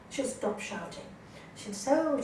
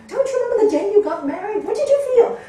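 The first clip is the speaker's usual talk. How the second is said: higher, louder, fast plea with a laugh; pleading question; 10 semitones higher, 11 dB louder, faster than usual. Retold or imitated. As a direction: coax them to remember their wedding. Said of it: "I go".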